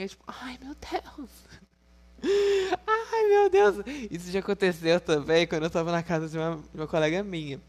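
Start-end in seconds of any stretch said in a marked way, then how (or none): 0.3-1.3 breathless whispered gasp of shock. Retold or imitated. Whispering in shock beside a friend on the phone. 2.2-3.8 high, loud burst through laughter; loud laughing exclamation. Real, not acted. Laughing loudly, telling viewers about the memory.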